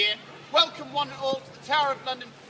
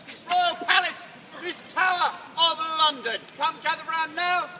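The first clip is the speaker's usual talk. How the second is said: rousing town crier call; epic bard; 3 semitones higher than usual. Acted. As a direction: announce it like a herald to a crowd. Herald calls the crowd.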